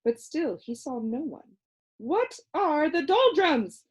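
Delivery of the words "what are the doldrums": high, calling out; crying out. A narrator's reading. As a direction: call out the question. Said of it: "he cried loudly".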